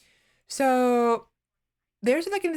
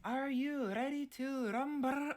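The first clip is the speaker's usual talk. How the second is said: announcer call; 5 semitones higher, 10 dB quieter, slower than usual. Retold or imitated. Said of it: "No, no, it's a".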